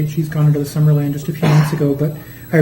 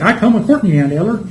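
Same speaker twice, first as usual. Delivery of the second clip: higher-pitched Southern twang; Southern accent; 5 semitones higher than usual. Retold or imitated. Actor's hidden accent popping out, Southern accent. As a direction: slip straight into a Southern accent. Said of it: "then it was right there".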